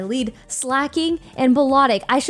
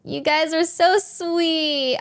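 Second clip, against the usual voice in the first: slow, tender and teary; choked-up thanks; 4 semitones higher, slower than usual. Real, not acted. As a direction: thank them while holding back tears. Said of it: "I'm gonna cry already".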